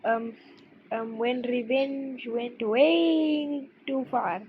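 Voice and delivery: slow put-on Indian accent; drawn-out Indian accent, hammed up. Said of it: "this is my Indian voice".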